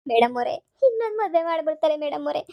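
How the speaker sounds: acted wail, rising then falling; wailing plea. Patient begs, fearing husband's remarriage. (ಗೋಳಾಡುತ್ತಾ ಬೇಡಿಕೊಳ್ಳುವ ಧ್ವನಿ)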